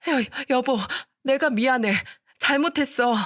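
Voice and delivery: high, pleading apology; grovel, panicked; desperate begging. Acted. The wife, panicked, begs her husband to forgive her.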